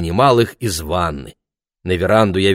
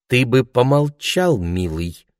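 firm mother. Acted. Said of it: "твёрдо сказала мама".

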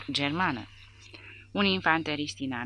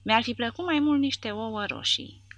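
raised, higher mocking shout; 8 semitones higher, 4 dB louder than usual. A narrator's reading. Micuțul shouting back at the sentry, mocking shout. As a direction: yell it back with a sneer. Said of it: "strigă micuțul".

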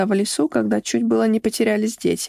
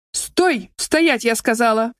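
рявкнуть; slower than usual. Acted. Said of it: "рявкнула Альбина".

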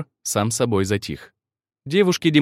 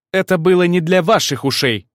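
cold retort; 6 semitones higher, 3 dB louder than usual. Acted. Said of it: "холодно отрезала она".

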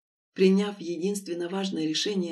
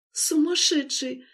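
higher, slow teasing scold; fond reproach; 6 semitones higher, slower than usual. A narrator's reading. Lera to Denis, reproachful yet happy. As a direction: chide him lovingly. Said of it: "укоризненно покачала головой".

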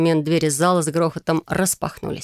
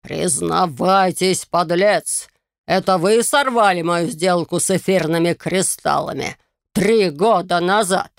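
furious lord; slower than usual. Acted. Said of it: "дрожащим от ярости пальцем".

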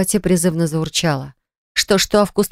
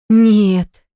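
drawn-out happy no; happy drawl; 4 semitones higher, 5 dB louder than usual. Acted. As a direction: stretch it out gladly. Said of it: "Тяну счастливо".

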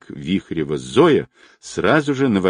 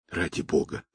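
softer, hushed plea; a soft, earnest hint of begging; pleading; 3 semitones lower, 9 dB quieter than usual. A narrator's reading. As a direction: beg him quietly. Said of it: "умоляюще проговорила Зинаида".

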